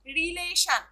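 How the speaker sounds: रिलेशन with the stress on ले; stress on second syllable. Shown as a demonstration. Teacher demonstrating to students where stress falls, रिलेशन stressed on ले. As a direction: lean on the middle syllable of रिलेशन. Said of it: "ई पे ज्यादा stress हुआ है".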